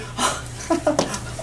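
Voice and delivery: soft acted jeering laugh; short mock chuckle. Soldiers jeer at Jesus in the robe, mocking laugh. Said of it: "they are laughing".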